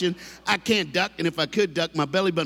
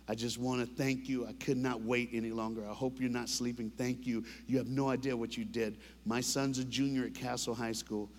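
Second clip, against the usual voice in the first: grateful dad; 3 semitones lower, 8 dB quieter than usual. Retold or imitated. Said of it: "this is what he said in his email".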